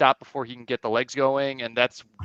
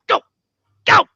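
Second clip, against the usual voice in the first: high, louder mock cheer; re-enacted cheering shout; 12 dB louder than usual. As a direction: re-enact urging a runner on from the stands. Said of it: "I was just shouting".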